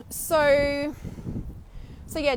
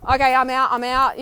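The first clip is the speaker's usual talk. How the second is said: loud, firm I'm out; loud, firm decision to walk away; decisive exit; 6 dB louder than usual. Retold or imitated. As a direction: announce you're done. Deciding to leave.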